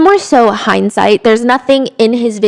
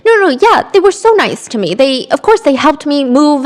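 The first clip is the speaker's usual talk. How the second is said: defensive reply; 5 semitones higher than usual. Retold or imitated. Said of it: "sound like an ungrateful person".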